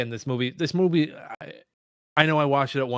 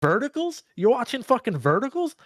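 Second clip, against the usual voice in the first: much higher, incredulous roast; mock old-head rant; 10 semitones higher than usual. Older podcaster roasting Gen Z viewers, mock outraged. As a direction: sneer at the kids like a schoolyard bully. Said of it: "and I'm like".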